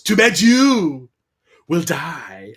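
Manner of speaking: slow, hammed-up evil queen; Sindel's villain line. Sindel threatening Kitana, slow mock-menacing drawl. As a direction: drag it out like a camp villain. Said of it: "Sindel just points at Kitana and goes".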